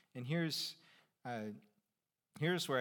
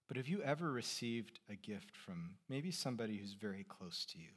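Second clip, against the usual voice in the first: hushed; 4 semitones lower, 7 dB quieter than usual. Real, not acted. Softly asks about close giver.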